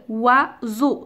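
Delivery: "oiseau" in two separate beats; split into syllables. Shown as a demonstration. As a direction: break "oiseau" as oi, seau. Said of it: "dans la deuxième syllabe".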